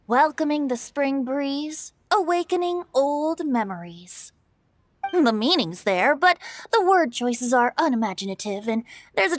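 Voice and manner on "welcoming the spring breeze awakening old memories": slightly slowed, measured poem recital; mock-formal poetry reading; reciting a verse. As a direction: read it out like a stiff old poem. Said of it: "There's one I heard a while back that went".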